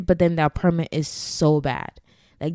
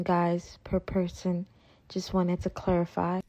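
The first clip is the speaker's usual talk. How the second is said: whispered aside; 6 dB quieter than usual. Real, not acted. Aside clarifying price.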